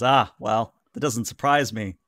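a dry, lightly scoffing "Ah, well"; scoffing fixer. Acted. Fixer scoffs at the players' TV claim, understated scoff. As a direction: brush it off with a mild scoff, barely in character. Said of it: "Mister Johnson actually kinda scoffs".

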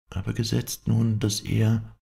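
hoch und ängstlich, der Ohnmacht nahe; fast ohnmächtig. Acted. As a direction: bang und stockend einwerfen. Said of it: "warf Clotilde ein, die der Ohnmacht nahe war". (Clotilde, der Ohnmacht nahe, wirft höher und bang ein)

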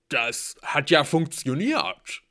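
loud, slow amazed exclaim. Acted. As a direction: marvel out loud. Blitz surprised arm healed.

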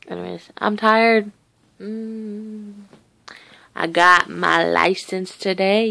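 ordinary talk, nothing marked

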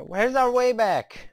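high, slow, distressed cry; panicked. Real, not acted. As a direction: wail it in despair at being lost. Panics after getting lost.

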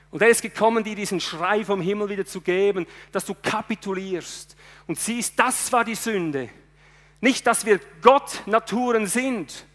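fervent sermon voice, rising and pushing; preaching at full force. Acted. Preacher driving home his sermon, fervent preaching. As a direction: preach it to the congregation with fire.

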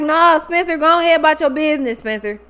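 mildly put-out, waving him off; imitating a miffed woman's dismissal; Layla. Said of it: "She was like".

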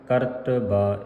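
ਕਰਤਬਾ as ਕਰਤ-ਬਾ, single ਬ; correct pronunciation. Shown as a demonstration. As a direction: say ਕਰਤਬਾ with ਬਾ slightly apart. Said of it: "ਕਰਤਬਾ ਇਸ ਤਰ੍ਹਾਂ ਪੜ੍ਹਨਾ ਹੈ".

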